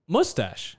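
mustache said as "moo-stash" with a rounded oo; his pronunciation of mustache. Shown as a demonstration. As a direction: mustache with the vowel of "push", stress on the end. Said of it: "Well, how do you say it?".

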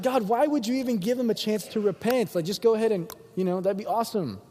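high, exasperated complaint; mad. Acted. Jonah objecting to God's mercy, mad. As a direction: protest like you can't believe it. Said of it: "He got mad. He's like".

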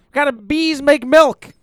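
loud, slow joke delivery; joke setup. Shown as a demonstration. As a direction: set up the punchline slowly. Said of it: "you wanna hear a funny joke".

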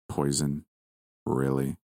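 a low, lightly disappointed scoff. Acted. Lucifer to the grandmother, mild disappointment. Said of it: "in a disappointed tone".

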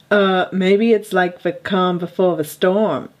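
put-on a hesitant stab at a Trump accent; lightly voiced Trump imitation; attempted Trump. Co-host playing the president for a mock reporter, half-hearted Trump accent. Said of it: "you try being Trump".

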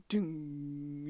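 soft, low imitated chime; ding sound effect. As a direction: hum a spooky horror-movie ding. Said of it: "sound effects that are like".

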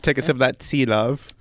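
mock British tea. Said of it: "You're already halfway to England".

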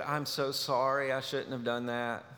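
a quiet, calm apology; calmly. Retold or imitated. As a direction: say it meekly, hushed. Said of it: "she very calmly said".

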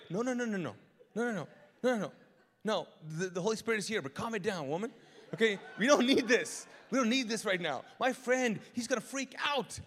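hammed-up panic to settle an overexcited woman; mock frantic pleading. Acted pleading to calm worshipper.

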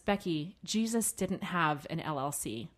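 a light imitation of a calm, compassionate husband; loving and straightforward. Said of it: "His tone was so incredibly loving and so compassionate".

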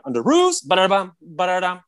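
high, singsong replay of the scene; hammed-up high yell into mimicked hits; imitated trailer scene. Replaying the favourite trailer moment, high imitation.

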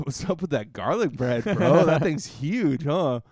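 imitating chummy interest with an angle; feigned admiration. Angling for the stranger's garlic bread, feigned admiration.

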